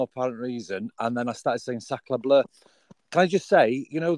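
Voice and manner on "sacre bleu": retold French exclamation, lightly accented; french chef. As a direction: toss it off in a hint of French accent. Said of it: "I had sacre bleu Tourette's".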